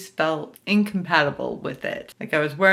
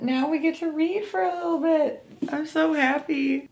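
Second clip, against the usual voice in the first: high, happy sing-song; happy squeal; 12 semitones higher than usual. Real, not acted. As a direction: gush about reading time. Happy about reading time.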